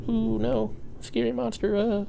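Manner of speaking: high-pitched mock frightened kid; scared child. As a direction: play a little child scared of monsters. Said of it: "like I'm a child playing Subnautica".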